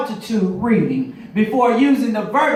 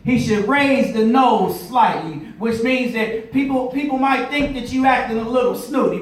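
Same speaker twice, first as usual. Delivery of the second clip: preaching. Acted. Pilot lesson turned sermon.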